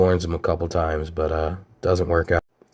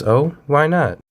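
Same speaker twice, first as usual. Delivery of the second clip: high surprised question; 8 semitones higher, 5 dB louder than usual. Retold or imitated. Betty answering her son.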